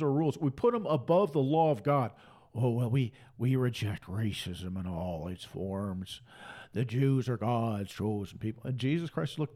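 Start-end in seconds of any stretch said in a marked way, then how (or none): 2.5-8.6 low, slow, soft put-on voice; sneering low mimicry of a pious line; mocking churchgoer. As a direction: parody pious talk, dropped low and drawn out.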